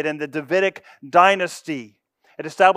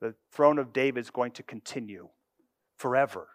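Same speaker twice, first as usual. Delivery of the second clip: declaring God; 4 semitones lower, 5 dB quieter than usual. Acted. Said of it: "He declares his purpose and said".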